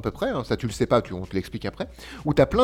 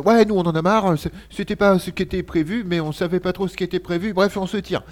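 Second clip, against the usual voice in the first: higher, mocking voice of fed-up crew; mock whiny crew; 5 semitones higher than usual. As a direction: play them whiny and fed up. Characters quitting, voiced quote.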